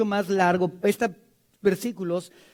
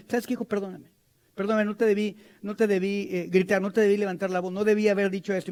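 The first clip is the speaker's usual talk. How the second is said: tender apology; faster than usual. Retold or imitated. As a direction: apologize gently to your son. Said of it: "Cuando me, me enojo".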